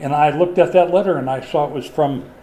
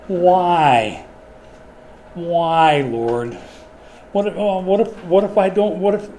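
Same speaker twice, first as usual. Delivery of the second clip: whining Moses; 2 semitones higher, slower than usual. Retold or imitated. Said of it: "hear the whine in his voice".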